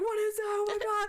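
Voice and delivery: high-pitched pretend panic; playful retold shriek; mock scream. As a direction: imitate two friends freaking out, no real shout. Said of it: "And they both scream".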